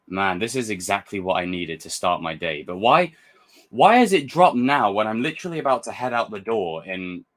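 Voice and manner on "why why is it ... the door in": louder, higher, rushing out the complaint; exasperated outburst. Real, not acted. To the viewers, fed up the trailer dropped before leaving, exasperated. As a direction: groan it out, half-laughing at the bad timing. Venting about the trailer's timing.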